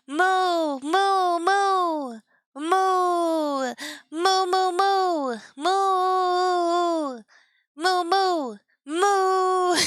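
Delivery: string of long, playful moos; drawn-out pretend cow calls. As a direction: moo over and over like a cute cow. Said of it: "Only moo noises".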